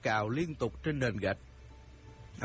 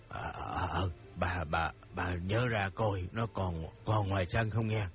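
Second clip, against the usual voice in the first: lower, halting frightened denial; stammering fear; 5 semitones lower than usual. Acted. Old man denies it to his wife, stammering low. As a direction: stumble over each word. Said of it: "Ông Phú nói vối theo".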